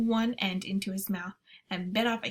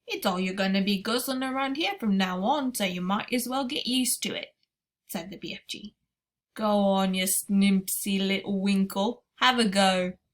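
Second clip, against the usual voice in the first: giant BFG voice; 3 dB louder than usual. Acted. BFG speaks in story.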